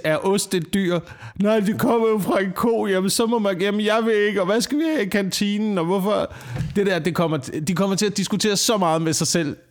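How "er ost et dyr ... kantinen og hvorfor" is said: mock squabbling vegans. Acting out the vegans squabbling among themselves.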